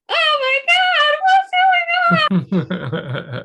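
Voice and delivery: high, slow, shocked wail; stunned wounded man. Acted. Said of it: "is like".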